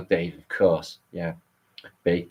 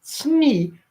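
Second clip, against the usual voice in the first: high squeaky mock knight demanding a shrubbery; Knights Who Say Ni; 10 semitones higher than usual. Streamer quoting the silly knights to his chat, high hammed-up voice. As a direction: ham up the silly knight, pitched way up. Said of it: "we the knights to say".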